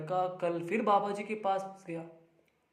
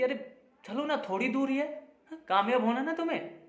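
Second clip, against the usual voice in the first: light, higher-pitched coaxing; 6 semitones higher than usual. Acted. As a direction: gently urge a tired boy onward. बाबा थके लड़के को मनाते हैं. (मनाते हुए, ऊँचे सुर में)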